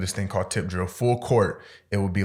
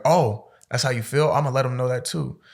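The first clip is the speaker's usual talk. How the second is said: sarcastic coach; 4 semitones higher than usual. Retold or imitated. Coach threatening to report.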